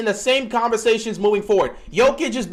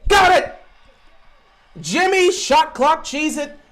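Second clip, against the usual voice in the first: much higher and louder, jubilant shout; excited cheer; 7 semitones higher, 4 dB louder, slower than usual. Real, not acted. Fan cheering Jimmy's three, excited shout. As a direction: celebrate the buzzer shot.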